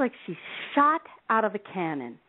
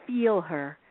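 weeping mother; much slower than usual. Retold or imitated. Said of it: "the mother now weeps".

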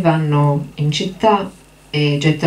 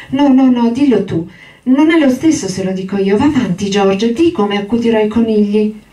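put-on high, eager childlike giant's voice; childlike Lenny; 6 semitones higher than usual. Lenny begging George for the story, high and eager. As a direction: plead like an overgrown child, voice up high.

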